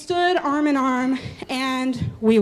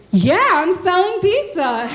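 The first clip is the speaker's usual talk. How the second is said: higher, louder, slowed with a laugh; calling out; 4 semitones higher, 4 dB louder, slower than usual. Retold or imitated. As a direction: shout the answer back, amused. Shouting answer over the crowd.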